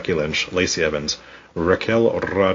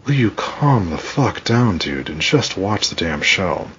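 slow, exasperated plea to calm down; tired, put-upon scolding; exasperated retort; slower than usual. Retold or imitated. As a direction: drag it out like you're fed up with them. Exasperated retort at online fans.

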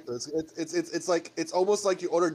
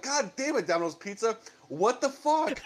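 mock angry rant; 5 semitones higher than usual. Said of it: "I'm like".

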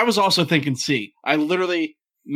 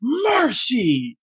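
high drawn-out announcer call; Hawk Harrelson impression; 10 semitones higher than usual. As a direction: call it like the White Sox announcer. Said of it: "it was".

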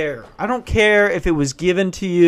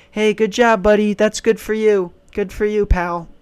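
patronizing praise; 5 semitones higher than usual. Retold or imitated. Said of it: "They're going".

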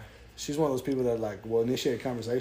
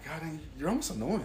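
laughing exasperation; 4 semitones higher, 3 dB quieter than usual. Retold or imitated. Mock exasperation at cousins.

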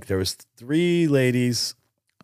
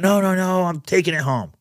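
higher, mock childish protest; daughter pleading; 7 semitones higher than usual. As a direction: play the kid refusing to give it up, lightly. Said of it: "She said".

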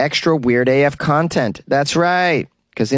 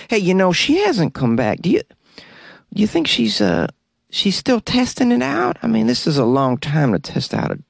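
dopey employee voice; 2 semitones higher than usual. Retold or imitated. Second employee voiced in story.

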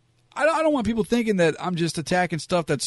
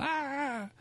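crowd gasp; 12 semitones higher, 8 dB quieter than usual. Retold or imitated. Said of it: "in the front row going".

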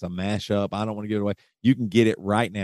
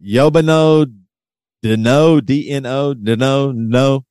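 loud, higher put-on Russian accent; 3 semitones higher, 5 dB louder, slower than usual. Shown as a demonstration. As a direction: sound out the Russian slowly and loudly. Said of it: "help me pronounce them right".

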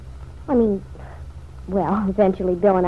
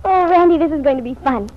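malicious glee; 4 semitones higher, 3 dB louder than usual. Acted. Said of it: "What a malicious little thing she is".

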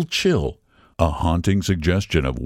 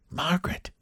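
much softer, barely breathed; breathed name; 9 semitones higher, 10 dB quieter than usual. A narrator's reading. Lady in the car recognizing an old friend, breathed softly. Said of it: "breathed Missus Frary".

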